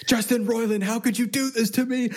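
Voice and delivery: high, wailing mock sob; crying at the TV. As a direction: wail like a betrayed fan. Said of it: "Yelling at the T V too much?".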